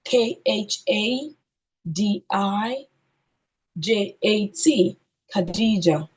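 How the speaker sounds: slow "K H A", pause, "D I", pause, "J A T"; spelled by syllables. Shown as a demonstration. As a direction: spell it in syllable groups, then say "Khadija". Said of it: "and then spell according to syllables".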